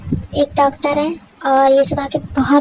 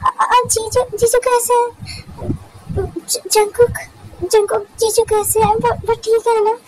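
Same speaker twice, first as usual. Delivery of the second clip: higher, hurried, worried younger sister asking after her husband; frightened girl pleading for news; anxious young wife; 8 semitones higher than usual. Acted. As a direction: ask fast and scared, stumbling on the names. Tae worried about husband.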